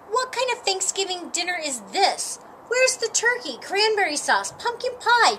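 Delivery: rising outrage, pitch climbing on each dish; indignant complaint. Acted. Patty scolding Chuck about the missing turkey, indignant. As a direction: demand to know where the real food is.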